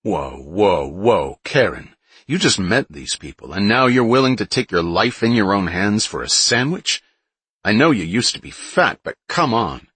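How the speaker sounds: loud, mocking rude man; scoffing bully. Ryan scoffing at Karen.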